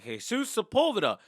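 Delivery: calling out a name. Retold or imitated. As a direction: call the name across an assembly. Name called out at awards.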